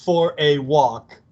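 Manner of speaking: lightly voiced Spike, snarky and slow; Spike's snark. Fan quoting Spike's line to Buffy, lightly voiced snark. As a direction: toss off the insult with mild swagger. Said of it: "it's so perfectly Spike".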